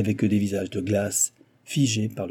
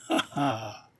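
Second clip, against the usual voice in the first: soft, mocking chuckle; sneering laugh; 5 dB quieter than usual. A narrator's reading. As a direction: snicker derisively at an enemy. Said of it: "ricana Mister Big".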